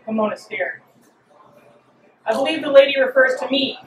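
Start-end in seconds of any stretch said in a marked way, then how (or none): 2.3-3.8 dry. Acted. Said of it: "Vertumnus said dryly".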